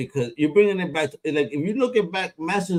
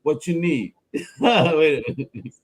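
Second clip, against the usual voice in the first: side-eye suspicion. Retold or imitated. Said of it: "we give you the side eye".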